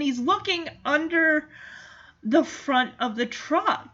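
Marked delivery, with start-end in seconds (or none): 3.9-3.9 laughing. Real, not acted. Laughing with relief at reunion.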